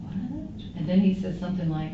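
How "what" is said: high, startled "What?" said softly; a baffled little gasp of a question; surprised what. Retold or imitated. To Charles's text, a startled high what. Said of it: "I'm like".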